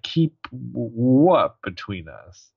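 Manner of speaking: slow, halting wary question; imitated wariness. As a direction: mimic someone warily stumbling over the question. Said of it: "like, very wary".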